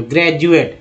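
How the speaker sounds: ग्रेजुएट said as grejuet, the D sounding like J; teacher shows ग्रेजुएट as grejuet; pronunciation demo. Shown as a demonstration. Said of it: "इसमें डी का उच्चारण ज के रूप में".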